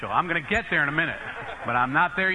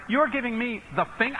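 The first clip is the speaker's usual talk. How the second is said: higher-pitched, offended question; incredulous outrage; 6 semitones higher than usual. Retold or imitated. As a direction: retell it in disbelief. Reacts to rude gesture from driver.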